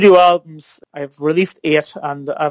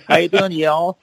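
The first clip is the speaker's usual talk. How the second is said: put-on Southern accent; 3 semitones higher than usual. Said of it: "can you sing with a Southern accent?".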